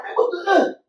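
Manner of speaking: high, clipped-off exclamation; half a curse, cut short in frustration; mock angry outburst. Retold road rage again.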